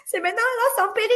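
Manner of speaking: high alarmed disbelief; shocked question. Retold or imitated. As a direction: blurt it out in disbelief. Her panicked surprised question.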